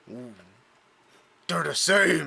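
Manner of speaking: low, muttering orc monster voice. Voicing confused orcs talking among themselves: orcs muttering to themselves. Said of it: "you can hear them muttering to themselves".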